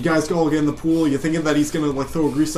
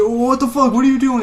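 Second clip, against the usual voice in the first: mock yell; 10 semitones higher, 6 dB louder than usual. Chefs yelling at smoke detector.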